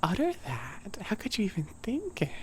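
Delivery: half-serious scolding of a book character; mock indignation. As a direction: play-act being appalled at the rude character. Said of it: "I'm like".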